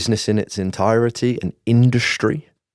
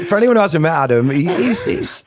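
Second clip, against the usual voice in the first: laughing while talking; 7 semitones higher, slower than usual. Real, not acted. Laughing while telling the joke.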